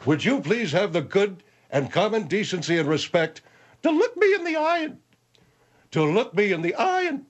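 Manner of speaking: cartoon animal voice. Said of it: "you sound like a cartoon animal".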